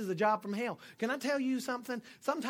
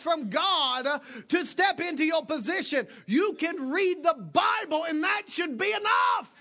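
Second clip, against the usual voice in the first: preaching shout; 7 semitones higher, 6 dB louder than usual. Real, not acted. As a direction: drive it home to the congregation. Preaching climax.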